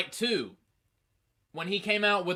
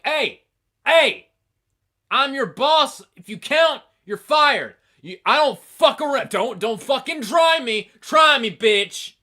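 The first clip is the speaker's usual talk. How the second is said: angry, high shouted threats; The Rock; 10 semitones higher, 14 dB louder than usual. Retold or imitated. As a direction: bellow like a boss pulling rank on an employee. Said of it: "The Rock was like".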